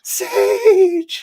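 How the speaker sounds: high, loud, delighted call of a name; light up as a friend arrives; excited greeting. Real, not acted. Greeting a friend who joined.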